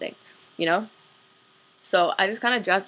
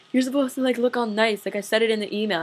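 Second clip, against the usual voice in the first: pissed off; 3 semitones higher than usual. Retold or imitated. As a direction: replay his irritated scolding. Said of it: "he got really pissed off".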